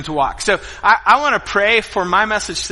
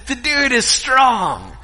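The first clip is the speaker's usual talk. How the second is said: laughing through the words; amused, laughing admission; 4 semitones higher, much slower than usual. Real, not acted. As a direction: laugh it out in disbelief. Laughing at his defeat.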